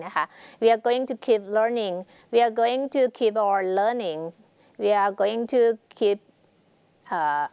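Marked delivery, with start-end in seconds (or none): 0.6-4.2 drawn-out, careful reading; slow example reading. Shown as a demonstration. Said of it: "teacher reads example slowly". 4.8-6.2 drawn-out, careful reading; slow example reading. Shown as a demonstration. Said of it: "teacher repeats slowly".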